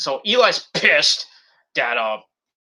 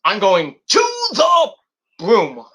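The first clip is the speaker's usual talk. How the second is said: mock butler line; 3 semitones higher, slower than usual. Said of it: "He's like".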